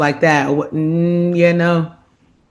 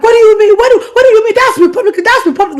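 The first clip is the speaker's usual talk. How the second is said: imitating a furious dad, much higher and louder; mock outraged father yelling in disbelief; a retold dad blowing up; angry dad; 7 dB louder, faster than usual. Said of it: "My dad was hot".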